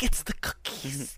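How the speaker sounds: slow, hushed mock whisper; whispered aside. Santa's wife blames the cookies, hushed whisper. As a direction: breathe it out as a secret confession.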